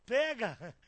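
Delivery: loud retold "take it"; retold urgent command. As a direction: call it out loudly, acting out the moment. Quoting urgent demand to woman.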